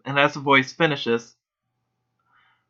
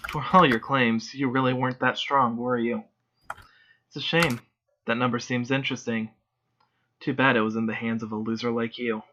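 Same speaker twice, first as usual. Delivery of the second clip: mocking; 4 dB quieter than usual. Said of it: "The woman's voice mocking him".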